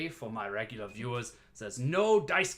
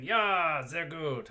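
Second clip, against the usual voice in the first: excited; 4 semitones higher, 3 dB louder, much slower than usual. Acted. Hyped reply to stream chat.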